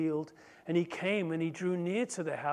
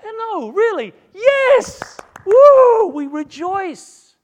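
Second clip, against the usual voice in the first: very high, very loud whooping joy; celebrating someone else's grace; ecstatic cheer; 19 dB louder, much slower than usual. Acted. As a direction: whoop and rejoice. Mock joyful reaction.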